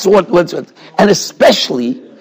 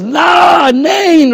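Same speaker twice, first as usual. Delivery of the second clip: a sharp refusal, raised high; retold firm no; 8 semitones higher than usual. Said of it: "Rav Shach said to him".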